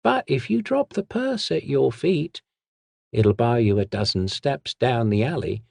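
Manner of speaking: sly hissed threat from the shadows. Acted. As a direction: hiss the warning like a street thief. The whisperer continues.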